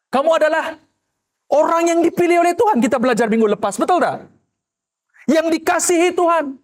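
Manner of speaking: normal talking voice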